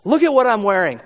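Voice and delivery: mock Herod showing off his wealth and power; boastful Herod. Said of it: "You can see Herod going".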